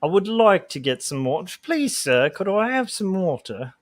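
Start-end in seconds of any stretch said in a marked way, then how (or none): 1.6-3.7 pleading orphan. Pretend. Begging for water like orphan.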